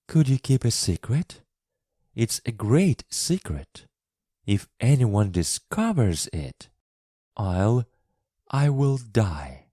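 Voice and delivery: put-on a young girl begging him to keep her secret; Mary's anxious girl voice. A narrator's reading. Mary asks him to keep a secret.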